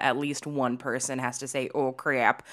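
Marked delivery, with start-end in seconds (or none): 1.7-2.4 lightly put-on Minnesota vowels; Minnesotan accent. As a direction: quote it with a Minnesotan twang. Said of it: "if anything is set in Minnesota".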